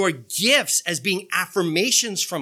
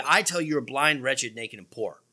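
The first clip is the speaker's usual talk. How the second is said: blunt verdict; 4 semitones lower than usual. Acted. Preacher quotes Jesus rebuking the church, falling and grave. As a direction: let the rebuke sink word by word.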